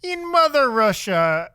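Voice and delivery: put-on slow, lightly done Russian accent; a hint of a Russian accent, drawn out; mock Russian accent. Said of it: "sign off in their best R-, Russian accent".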